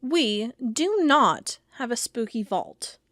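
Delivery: slow, emphatic denial; indignant denial. Acted. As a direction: spell it out slowly, mildly affronted. Indignant denial of spooky vault.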